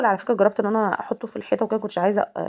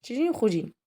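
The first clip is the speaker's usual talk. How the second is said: a hint of a whiny toddler begging to be picked up; voicing the little son; 3 semitones higher than usual. Mother voicing her son begging to be picked up, mildly whiny. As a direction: plead lightly in a child's voice. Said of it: "بص يقول لي".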